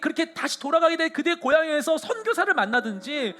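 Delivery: pleading prayer, rising loud and high; fervent prayer. Acted. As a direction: pray it out with full heart. Prays aloud fervently. (간절하고 뜨거운 기도)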